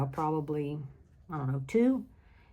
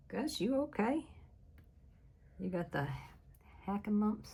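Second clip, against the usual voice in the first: higher, coaxing pet-talk voice; a quick aside to the dog, asking if he's okay; 5 semitones higher, 6 dB quieter than usual. Real, not acted. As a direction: fuss over the dog in a lifted, playful voice. Turns to talk to the dog Gus.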